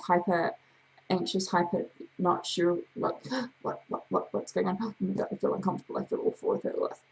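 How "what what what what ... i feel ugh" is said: fast, gasping hammed-up panic; mock panic. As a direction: play a jittery person with gasps. Acting out the anxious ten.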